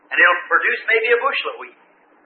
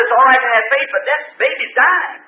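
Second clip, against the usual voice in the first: nurse's alarmed outburst; 2 semitones higher than usual. Retold or imitated. Nurse protesting to the preacher.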